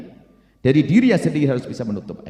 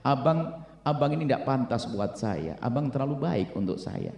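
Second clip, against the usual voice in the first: wife's humble plea; 3 semitones lower, 4 dB quieter, slower than usual. Acted. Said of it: "selalu berkata".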